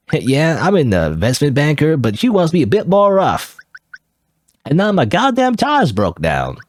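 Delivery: put-on half-hearted go at a cowboy accent. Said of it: "I didn't even do much of a cowboy accent".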